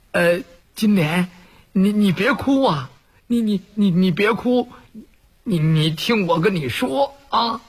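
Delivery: a timid man stumbling over his words to calm her; Wu Dalang stammering. Acted. Wu Dalang consoles weeping bride.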